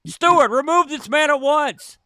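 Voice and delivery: high commanding call for the steward; a lord barking an order down the hall. Acted. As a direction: summon the servant imperiously. GM voices lord calling steward.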